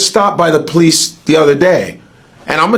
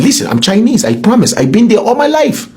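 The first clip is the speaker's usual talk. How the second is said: mock Chinese accent, pitched higher; 5 semitones higher than usual. Shown as a demonstration. Claiming to be Chinese to a friend, in a higher mock Chinese accent. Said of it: "and I even have the accent".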